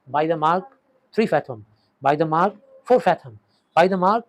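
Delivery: loud, drawn-out depth call; mock boatman's call. Delirious boy calling out river depths, loud drawn call. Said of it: "ऐसे चिल्ला रहा है".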